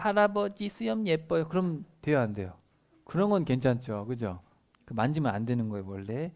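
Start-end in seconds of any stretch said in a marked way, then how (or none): 0.0-1.5 put-on high, slow child voice; little child. Small child admiring grandfather's beard, high childlike voice. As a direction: coo it sweetly like a small kid. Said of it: "이제 애기가 와가지고".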